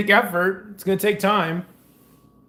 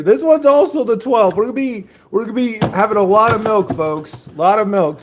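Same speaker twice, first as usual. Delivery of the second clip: excited; 4 dB louder than usual. Real, not acted. Excited over milk amount.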